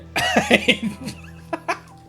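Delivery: high burst of giggles; relapse into laughter. Real, not acted. Streamer trying to move on, bursting into high laughter. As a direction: crack up after trying to settle.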